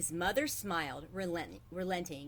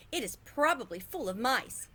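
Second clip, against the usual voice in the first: higher, louder complaining mother; last protest; 5 semitones higher, 4 dB louder than usual. A narrator's reading. Mother protesting to her husband, higher and louder. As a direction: push the final complaint.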